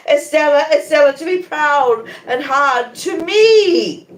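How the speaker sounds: high, loud, slow crying shriek; a high, loud sob-cry. A narrator's reading. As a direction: cry out her name in anguish. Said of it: "quite shrieked".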